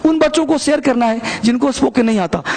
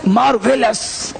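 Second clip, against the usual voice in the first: exclamatory demo; slower than usual. Shown as a demonstration. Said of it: "जो body language आपका है वो बदलेगा".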